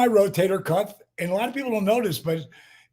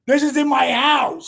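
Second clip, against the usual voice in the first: loud emphatic insistence, pitched up; nearly shouting it in disbelief; mild shout of disbelief; exclaimed; 6 semitones higher, 3 dB louder than usual. Real, not acted. Guest stressing the snake was home.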